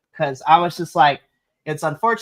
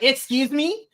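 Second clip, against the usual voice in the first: incredulous; 9 semitones higher, slower than usual. Retold or imitated. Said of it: "I was like".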